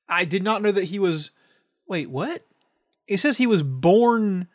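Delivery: slow, puzzled reading aloud; trailing off while reading ahead. Real, not acted. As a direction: read it out haltingly, baffled. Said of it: "What in the fuck is this man?".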